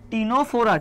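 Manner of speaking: "টিনোফোরা" with no K or S sound before the T; silent C. Shown as a demonstration. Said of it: "এই সিটা উচ্চারণ হয় না, টিনোফোরাটা উচ্চারণ হয়".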